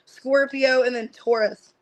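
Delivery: talking through hiccups. Real, not acted. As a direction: catch a hiccup between words. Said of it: "Excuse me, I got the hiccups".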